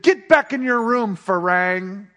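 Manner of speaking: a hint of a menacing pimp, firm and loud; threatening pimp. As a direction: order him back, cold and sure.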